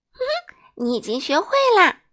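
a high, mild giggle over the words; giggling. A narrator's reading. Miss Sunshine tells the king he learned, giggling. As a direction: giggle out the praise. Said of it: "咯咯笑着说".

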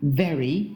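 "Very" with a voiced v, teeth touching lip; correct v. Shown as a demonstration. Teacher repeating the right form, bitten v in "Very". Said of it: "一定要咬舌".

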